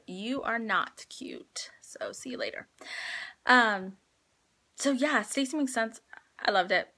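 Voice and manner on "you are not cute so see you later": hushed joking goodbye; teasing whisper. Real, not acted. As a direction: whisper it like a playful brush-off. Teasing husband aside.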